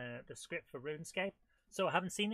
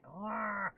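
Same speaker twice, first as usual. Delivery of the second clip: long, high "aah"; weird strained noise; 4 semitones higher than usual. Real, not acted. Player trying to get in, weird frustrated noise. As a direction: let out a drawn-out silly groan. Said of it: "and other weird noises as well".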